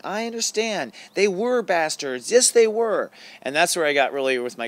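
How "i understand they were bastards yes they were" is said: inner advocate. Retold or imitated. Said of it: "I became my own advocate inside".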